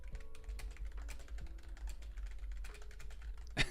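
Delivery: wheezing, voiceless laugh; quiet breathless laughing; silent laugh. Real, not acted. Streamer recovering from a jump scare, quiet wheezing laugh.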